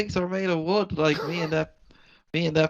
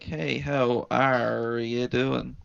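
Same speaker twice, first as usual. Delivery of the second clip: put-on pirate accent; 4 semitones lower, much slower than usual. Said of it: "He's using pirate tongue".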